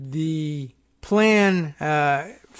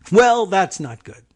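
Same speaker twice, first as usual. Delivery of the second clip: dry understatement; 4 semitones higher, 5 dB louder than usual. Real, not acted. Dry reaction to quote.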